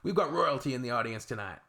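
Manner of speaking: mildly sarcastic stage announcement. Retold or imitated. Comedian on stage teasing an audience member, mildly sarcastic. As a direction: announce it with a touch of mock grandeur. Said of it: "sarcastic along the lines of".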